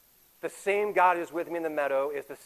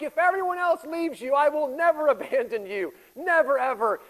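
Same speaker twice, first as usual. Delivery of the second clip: fervent vow; 8 semitones higher, 4 dB louder than usual. Retold or imitated. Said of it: "Peter's like".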